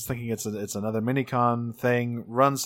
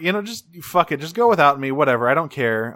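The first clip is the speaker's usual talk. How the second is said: pitched-up brush-off that drops away; imitated huffy dismissal; 3 semitones higher, 4 dB louder than usual. Alexis tells them to go without her, huffy. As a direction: act like you don't care.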